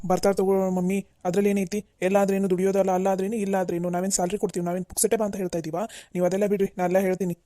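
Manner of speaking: mildly annoyed, brushing objections aside; testy insistence with a touch of temper; irritated. Acted. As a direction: dismiss the worry impatiently. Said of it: "ಯಾಕಷ್ಟು ಸಿಟ್ ಸಿಟ್ ಮಾಡ್ತೀಯಾ".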